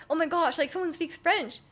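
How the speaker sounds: a touch of gushing surprise; excited. Retold or imitated. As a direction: lightly imitate someone thrilled. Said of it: "he was, like, really excited".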